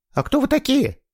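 a battered woman guarding her door; suspicious woman. A narrator's reading. Побитая женщина у двери, подозрительно. (побитая женщина, настороженно и высоко)

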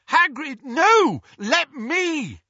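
high, loud shouted objection; yelled protest over engine noise; urgent shout. A narrator's reading. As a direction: shout to stop him, pitched right up. Shouting over a flying motorbike.

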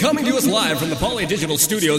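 lightly voiced ring announcer intro; boxing ring announcer. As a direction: announce the guests like a fight night. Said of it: "in your best fucking ring announcer voice".

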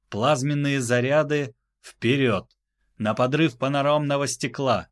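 crisp commanding orders; clear loud commands. Acted. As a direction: call each phrase clearly. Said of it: "Чётко и громко проговорил он каждую важную фразу".

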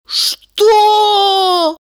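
high, loud shocked cry of "Что?"; shocked outcry. Acted. Friend, hearing Valeria loves Misha, cries out in shock. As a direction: blurt it out in horror.

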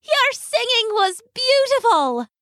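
a tiny glowing fairy, delighted. Acted. A fairy welcomes Loosemore to the party, high and sweet. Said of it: "one of the fairies replied".

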